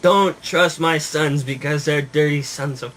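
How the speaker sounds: slow, mock Italian accent; heavy Italian accent. Dying hedgehog warning puppy about sons, Italian accent. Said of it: "something in a heavy Italian accent".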